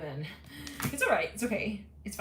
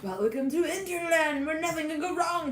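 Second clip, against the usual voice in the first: mock announcer; 8 semitones higher than usual. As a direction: announce it like a cheery tour guide.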